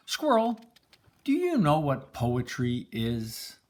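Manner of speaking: high, bright call to a friend; the boy calls up to Squirrel. Acted. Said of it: "He sees Squirrel".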